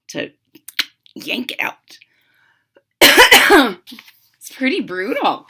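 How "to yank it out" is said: hushed whisper; whispering to the class. Real, not acted. Teacher whispers.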